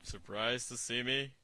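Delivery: a joking deep-voiced movie villain; mock deep voice. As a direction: put on a hammed-up deep menace. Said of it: "wants to sound like his testicles dropped".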